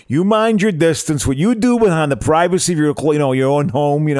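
mock Chicago tough guy; lightly voiced macho warning; tough-guy speech. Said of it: "So I gave him the speech".

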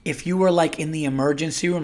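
lightly mocked patronizing agent voice; condescending. Supervisor explaining exceptions to the caller, mildly mocking and condescending. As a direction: imitate her talking down to him. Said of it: "this bitch was talking like that".

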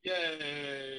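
loud happy yay; cheering. Real, not acted. Cheer at end.

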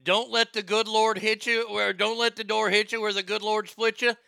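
mildly imitating a yelling preacher; a touch of pulpit yelling; Greg Locke rant. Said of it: "Oh, yes, the".

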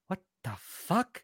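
imitating Korone. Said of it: "watching something go".

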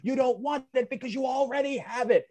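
high-pitched bratty character voices; hammed-up high-voiced squabble; acted bicycle confrontation. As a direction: play both sides of a childish spat. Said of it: "Pee-wee's confronting him about the bicycle".

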